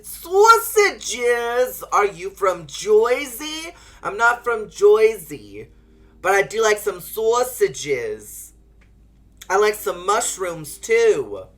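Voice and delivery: loud, slow hammed-up Italian; bad Italian accent. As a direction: play a cartoon Italian, badly. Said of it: "that was horrible".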